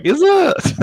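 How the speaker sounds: high-pitched mock question, laughing; Foster. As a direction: squeak it in a mocking imitation. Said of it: "Foster's like".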